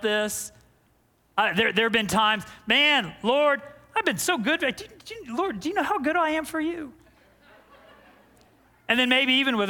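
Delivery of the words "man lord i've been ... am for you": mock whining. Preacher's own whining to God.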